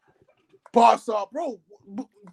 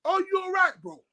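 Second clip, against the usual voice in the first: incredulous; 6 semitones higher than usual. Acted. Incredulous at the player's claim.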